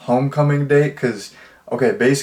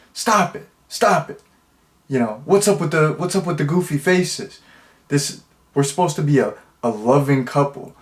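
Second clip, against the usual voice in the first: pitched-up, fussy scolding of a fake wife; mock exasperated protest; 2 semitones higher than usual. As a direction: scold her like a prissy fake husband. Billy scolds her in photo booth.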